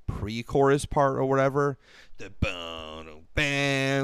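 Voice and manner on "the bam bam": drawn-out sung-out drum-and-riff noise; imitated riff. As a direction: mouth the riff, sinking low and soft, then back up. Voicing a pre-chorus riff.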